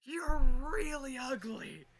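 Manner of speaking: slow, high-pitched shout; loud, drawn-out taunting yell; yelled insult. Acted. Yelling character insults another character.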